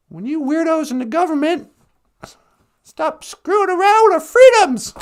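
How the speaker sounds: loud hammed-up redneck rant; mock angry trucker. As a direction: rant like a hammy truck protester. Mocking angry anti-government trucker.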